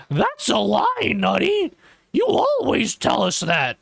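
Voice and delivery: high, squeaky mock viewer voice; mocking chat voice. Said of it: "I don't know what voice that is".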